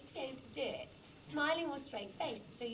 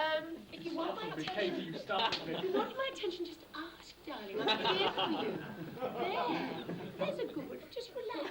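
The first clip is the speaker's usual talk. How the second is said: high, loud quacking duck voice; Donald Duck voice; 5 semitones higher, 5 dB louder than usual. Pretend. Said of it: "Impersonation of Donald Duck".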